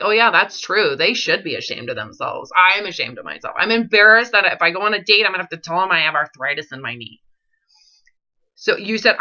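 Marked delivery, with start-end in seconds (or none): 0.0-7.2 lower, mock-sulky voice quoting her; mocking impersonation. Coach mimicking client's shame in a lower mocking voice. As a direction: play back her words in a lower, sulky voice.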